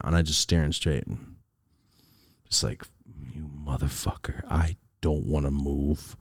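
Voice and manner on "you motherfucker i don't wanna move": low, soft, slow cursing; silently seething. Retold or imitated. Son staring straight ahead in dad's car, seething. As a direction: imitate bottled-up rage, kept quiet. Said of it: "Like, I was mad".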